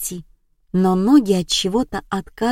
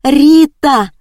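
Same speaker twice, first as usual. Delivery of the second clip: loud, high cry of a name; 7 semitones higher, 8 dB louder than usual. Acted. Liza falling, calls out to Rita with a loud high cry. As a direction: cry out as she collapses. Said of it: "вскрикнув".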